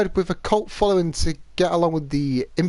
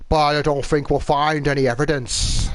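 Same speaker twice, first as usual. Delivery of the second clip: badly faked Irish accent; poor Irish accent; 3 semitones lower than usual. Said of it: "that extremely poor Irish accent".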